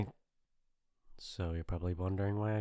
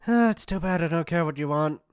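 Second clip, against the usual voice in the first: louder, higher scoff; scornful dismissal; 6 semitones higher, 6 dB louder than usual. Acted. Bully refused entry at the door, scornful. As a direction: brush off the objection with scorn.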